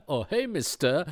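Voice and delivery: high breathy come-on voice; sultry lady voice. Pretend. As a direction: purr it like a seductive scammer. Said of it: "that's a sultry lady voice".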